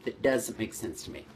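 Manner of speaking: doubtful, puzzled frown in voice; skeptical. Shown as a demonstration.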